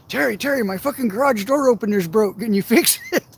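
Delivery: lightly voiced neighbor urgently asking for a favor; eager neighbor. Neighbor rushes over begging help.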